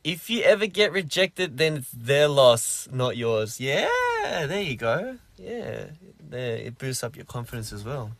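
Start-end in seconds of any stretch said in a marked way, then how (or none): 0.0-3.6 reading a comment. Retold or imitated. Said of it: "that was a good comment".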